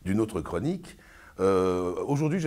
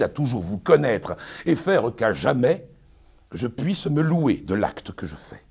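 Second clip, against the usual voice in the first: pompous Arnolphe, lecturing his bride; booming, sermonizing stage declamation; hammy stage actor; 4 dB louder than usual. Acted. Performs Arnolphe's tirade.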